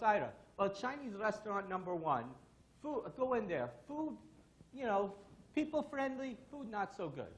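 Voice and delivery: lightly imitated Russian accent; Russian accent with halting phrases; Stan. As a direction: report in choppy, mock Russian-accented English. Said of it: "with my funny Russian accent".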